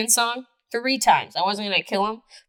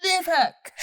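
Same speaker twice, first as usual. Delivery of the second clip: mock shock; 9 semitones higher, slower than usual. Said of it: "I would have been like".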